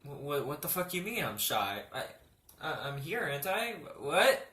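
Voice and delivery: hushed, stammering confusion; confused. Retold or imitated. Retelling confused reply to the doctor, hushed. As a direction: mutter it in baffled disbelief. Confused retort, much quieter.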